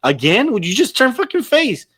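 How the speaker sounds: going from dismay to pleading, pitch soaring at the end; exasperated fan outburst. Retold or imitated. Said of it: "I'm like".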